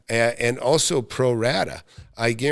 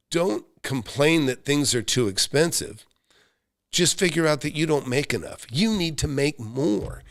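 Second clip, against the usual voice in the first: quoting a motivational speaker; 3 semitones higher than usual. Retold or imitated. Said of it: "the guy would say".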